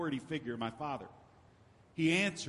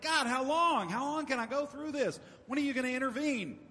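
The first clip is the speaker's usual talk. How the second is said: high, pleading outcry, rushing at the end; desperate cry; 7 semitones higher than usual. Retold or imitated. Job crying out to God in his suffering, desperate. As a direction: cry it up to heaven, worn out. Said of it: "he cries out to God".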